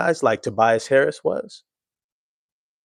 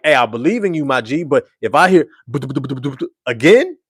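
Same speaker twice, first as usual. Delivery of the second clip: louder, supportive then firm pull-over call; firm friend; 3 dB louder than usual. Retold or imitated. Passenger telling the driver to pull over, firm. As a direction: back him, then lay down the law. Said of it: "and that's the hint. Like".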